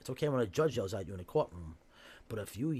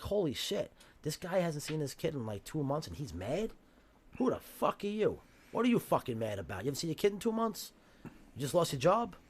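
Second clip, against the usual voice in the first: mock-outraged judge, higher and a bit louder; scornful judge; 5 semitones higher, 4 dB louder than usual. Imitating the shocked family court judge sneering at the father. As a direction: scoff at the father like a contemptuous judge. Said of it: "They're like".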